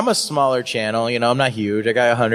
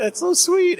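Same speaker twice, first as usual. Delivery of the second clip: much higher, cooing "that's so sweet"; touched. Retold or imitated. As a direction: coo it back, touched and flustered. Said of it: "And I was like".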